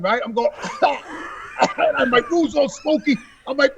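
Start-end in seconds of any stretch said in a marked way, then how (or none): 0.6-1.3 mock choking gag, no words; quick re-enacted gag; imitated gagging. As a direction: act out waking up gagging on smoke. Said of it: "I wake up and I'm gagging".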